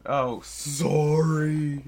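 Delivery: drawn-out startled sorry. Real, not acted. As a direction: caught off guard, stretch it.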